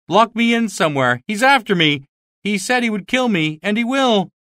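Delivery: high, frantic, pleading cry; desperate cry. Acted. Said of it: "cried Marvel in desperation".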